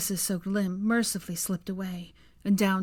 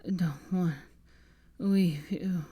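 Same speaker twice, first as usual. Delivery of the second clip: garbled; slower than usual. Acted. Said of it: "the words severely garbled".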